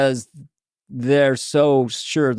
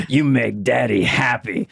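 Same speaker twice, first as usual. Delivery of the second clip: mock villain; 2 semitones lower than usual. Villain bit continues.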